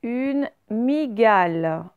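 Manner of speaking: "migale" sounded out slowly, mi-gal; slow, careful "migale", syllables stretched; Y read as I. Shown as a demonstration. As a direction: read "migale" with a plain ee, no glide. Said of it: "Il n'y a pas le son ye".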